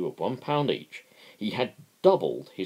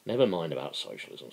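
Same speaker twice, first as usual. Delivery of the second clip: irritable; faster than usual. Acted. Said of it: "said Crass irritably".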